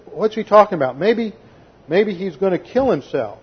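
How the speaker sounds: imitating a jeering crowd; sly sarcastic insinuation; sarcastic mockery. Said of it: "They're very sarcastic".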